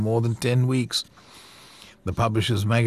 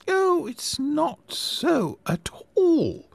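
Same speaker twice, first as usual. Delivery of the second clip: quiet indignation; much slower than usual. Acted. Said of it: "with quiet indignation".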